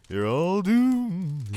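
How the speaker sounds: slow, loud, ominous doom warning; slow ominous raspy drawl. Retold or imitated. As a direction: drag it out like a crazed prophet. Imitating Crazy Ralph's warning.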